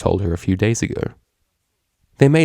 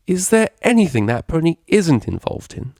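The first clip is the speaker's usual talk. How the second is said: disbelieving; 9 semitones higher than usual. Acted. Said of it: "Octavia said disbelievingly".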